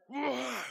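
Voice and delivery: loud high cheer; excited whoop. Retold or imitated. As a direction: whoop with zeal. Teen excitement.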